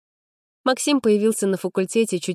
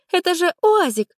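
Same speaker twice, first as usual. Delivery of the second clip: much higher, sneering punchline; scornful exclamation; 13 semitones higher, 4 dB louder than usual. A narrator's reading. Anka sneers that he drives a UAZ. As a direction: scoff at his cheap car. Gossip mocking his car.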